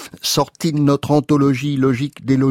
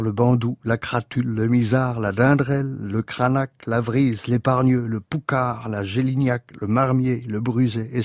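quieter, steady litany of invented names; literary list recitation; 5 dB quieter than usual. Acted. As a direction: run the names on in an even, lowered voice. List rattled on, dropping in level.

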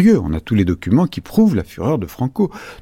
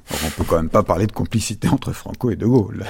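ordinary talk

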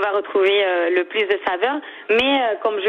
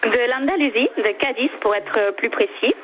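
native Spanish speaker's French; French with a light Andalusian accent. Real, not acted. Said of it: "Quelque chose me dit que vous avez des origines espagnoles".

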